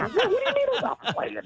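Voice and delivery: retold stunned protest with a laugh; shocked disbelief. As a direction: pitch way up in mock outrage, laughing. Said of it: "I go".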